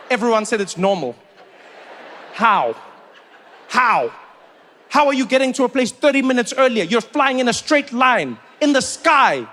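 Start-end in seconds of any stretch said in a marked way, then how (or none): 2.3-9.5 incredulous rant. Real, not acted. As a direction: hammer the questions in disbelief. Incredulous rant about short flight.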